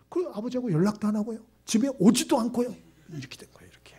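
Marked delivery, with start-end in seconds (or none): 3.1-3.9 whisper. Real, not acted. Pastor whispering the sad outcome to the congregation. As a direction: drop to a sudden whisper. Pastor drops voice mid-story.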